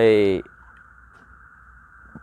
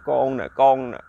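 tearful plea. Acted. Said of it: "ông khóc. ông nói".

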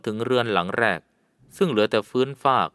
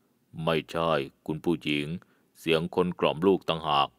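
put-on old Karen guide; 5 semitones lower, 4 dB quieter than usual. A narrator's reading. Old Karen guide answers her. (ชายชราชาวกะเหรี่ยง เสียงต่ำ ช้า และเบา)

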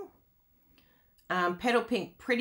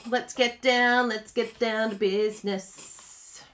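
slow, stretched-out repeat of the phrase; lingering, jokey emphasis; playful drawl; slower than usual. Pretend. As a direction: draw out each word for fun.

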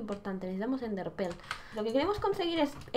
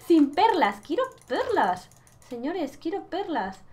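mock whine; 3 semitones higher, 5 dB louder, slower than usual.

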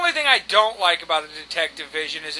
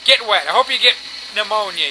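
loud, spiteful outburst; exasperated rant at the game; angry cursing; 2 semitones higher, 6 dB louder, faster than usual. Real, not acted. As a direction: curse the character loudly. Cursing Batman in frustration.

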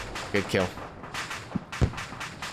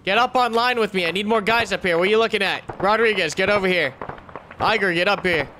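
yelling orders; 3 semitones higher than usual. Real, not acted. Squad leader yelling orders.

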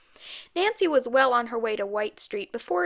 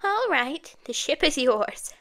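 put-on old-woman voice; a creaky granny closing the deal; squeaky grandmother; 3 semitones higher, slower than usual. A narrator's reading. Grandmother handing over ship for money, in squeaky voice.

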